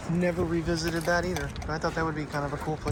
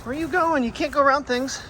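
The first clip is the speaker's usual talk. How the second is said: much higher and louder, half-teasing pet talk; calling after the dog; 9 semitones higher, 7 dB louder than usual. Real, not acted. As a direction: owner calls after wandering Priya, high and loud. Dog wanders off, owner calls.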